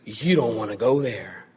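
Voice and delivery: mean it, gently and gravely; earnest warning. Retold or imitated. Preacher voicing Jesus warning his listeners, earnest and soft. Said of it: "Jesus says".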